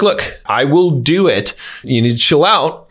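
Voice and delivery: slow, deliberate start, firmly controlled; assertive. Shown as a demonstration. Coach models telling an impatient driver to chill out, assertive and controlled. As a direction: set a boundary firmly without yelling. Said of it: "you are asserting yourself".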